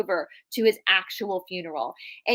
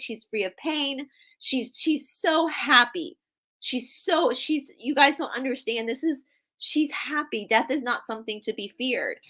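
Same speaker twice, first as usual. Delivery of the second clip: a grandfather glowing at a funeral, insisting all is well; joyful reassurance; 3 semitones higher than usual. Retold or imitated. Grandfather elated at sister's funeral.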